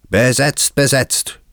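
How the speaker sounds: high, insistent cry; calling out. A narrator's reading. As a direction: call it out high to turn someone away. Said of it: "riefen sie".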